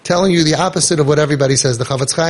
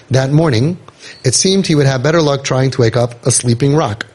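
measured read-aloud storytelling; story narration. A narrator's reading. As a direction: read the tale out in evenly phrased sentences.

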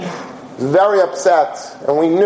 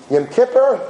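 higher-pitched, incredulous question; flabbergasted; 4 semitones higher than usual. Retold or imitated. Kid reacting to grandmother's favorite day, mildly flabbergasted. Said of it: "was flabbergasted".

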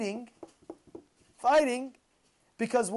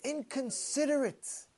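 muttered insult; 2 semitones higher, 8 dB quieter, slower than usual. Retold or imitated. Fellow mutters at the double-parked driver, slow and soft. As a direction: mutter it under your breath with contempt. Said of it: "one of the fellows says".

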